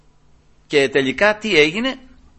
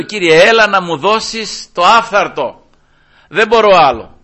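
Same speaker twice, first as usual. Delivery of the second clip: louder, drawn-out appeal to God; weary plea; 6 dB louder, slower than usual. Retold or imitated. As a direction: plead emphatically, as if at your limit. Preacher acts out his own plea. (έντονη παράκληση στον Κύριο)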